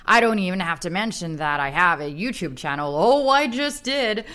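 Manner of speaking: deliberate American accent for reading a review aloud. Shown as a demonstration. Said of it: "I'm gonna do it in my American accent".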